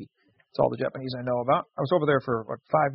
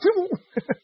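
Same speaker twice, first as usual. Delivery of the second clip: car zooming past; 4 dB louder than usual. Retold or imitated.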